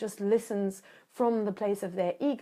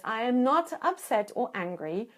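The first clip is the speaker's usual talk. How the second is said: calm reassurance. Shown as a demonstration. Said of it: "I say it in exactly those words".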